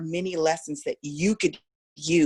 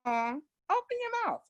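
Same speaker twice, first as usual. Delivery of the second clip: higher, slow, muffled "Open your mouth" with mouth shut; closed-mouth mumble; 13 semitones higher, 6 dB quieter, slower than usual. Retold or imitated. Teacher mocking a mumble, then showing it open. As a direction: say it mumbling through closed lips. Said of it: "talking like this".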